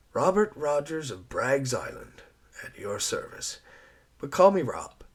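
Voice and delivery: lightly voiced gallant island man; charming introduction. Rogers introducing himself to Eliza, friendly. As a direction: offer your name with easy charm.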